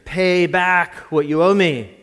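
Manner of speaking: slow, loud, harsh demand for the debt; a creditor loudly demanding his money. A narrator's reading. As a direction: threaten him as you choke him. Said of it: "he demanded".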